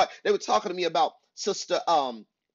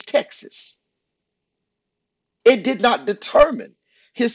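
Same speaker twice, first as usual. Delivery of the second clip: raised, forceful sermon delivery; emphatic preaching; 2 semitones higher than usual. Real, not acted. Preacher urging listeners beyond their hometowns, emphatic preaching. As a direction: drive each point home to the congregation.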